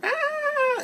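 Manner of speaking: high squealed mock scream; a playful pretend scream. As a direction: squeal like a frightened villager. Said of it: "the townspeople were screaming".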